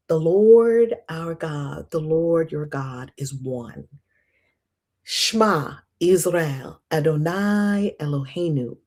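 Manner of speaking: slow, solemn recital fading to a whisper on "Adonai Echad"; reverent prayer. Acted. Reciting the Shema for viewers, slow and reverent. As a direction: pray it slowly, ending hushed.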